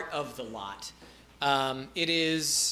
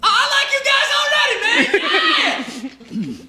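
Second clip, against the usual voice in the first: much higher and louder, fast, giddy dude; excited peasant; 8 dB louder than usual. Acted. Dale warms to the party, high, fast and giddy. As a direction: gush with instant friendship. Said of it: "He's like".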